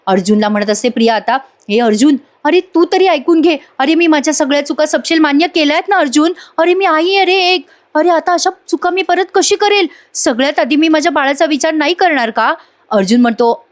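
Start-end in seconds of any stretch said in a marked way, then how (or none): 1.7-12.5 pleading. Retold or imitated. Priya begs Arjun to listen.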